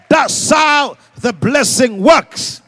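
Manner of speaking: high, loud, drawn-out proclamation; slow emphatic shout. Real, not acted. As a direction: hammer it home slowly. Climax of point.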